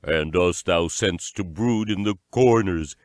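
lightly voiced goblin howl; a touch of bogle menace. A narrator's reading. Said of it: "howled the bogles".

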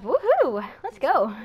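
high, loud cheer; celebratory whoop. Real, not acted. Gamer who went positive, celebratory whoop. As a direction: whoop for the win.

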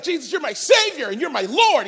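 put-on high, earnest church-kid praise; churchy devotion. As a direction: sing out your faith like a church kid. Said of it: "I grew up in church like".

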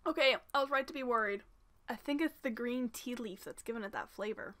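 muffled through the hand; speaking behind the palm; hand over mouth. Real, not acted. Seen 4: Hand covers mouth after tasting, from 0.4 to the end.

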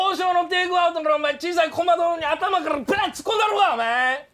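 shouted thug threat. Acted.

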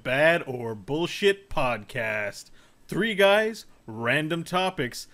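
slow announcer welcome; podcast host intro. Acted. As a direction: open the show like a host.

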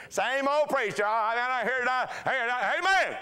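high, teasing congregant voice; Miss Millie's quip. Retold or imitated. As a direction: tease the preacher playfully.

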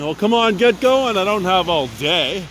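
high, exasperated call of come on; urging a dawdling car to move; impatient shout at a driver. Real, not acted. Yelling at a slow driver from bike.

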